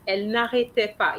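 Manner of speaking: Elle n'arrêtait pas said fast as a single unit; in one go. Shown as a demonstration. Teacher showing Anna the phrase in one fast go. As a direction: run it together quickly. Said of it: "All this needs to be in one go".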